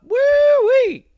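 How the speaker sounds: a high, loud mock "Woo-wee!"; loud, high joking holler; hammed-up whoop. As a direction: crow it like a mock cheer. Reacting to a schoolyard torture story.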